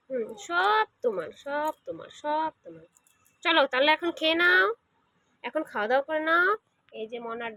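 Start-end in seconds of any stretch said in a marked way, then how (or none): 0.1-2.9 slow, softening reassurance fading quieter; calm the little one, letting it fade; soothing. Real, not acted. Mother soothing child claiming everything. (ধীরে নরম হয়ে আসা সান্ত্বনা)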